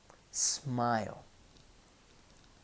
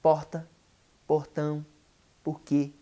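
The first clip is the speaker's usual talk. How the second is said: regional Brazilian accent, R nearly dropped in porta, portão, porquê; regional Portuguese accent; 4 dB louder than usual. Shown as a demonstration. Teacher shows how friends speak, dropped-R Brazilian accent. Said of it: "a lot of our friends speak".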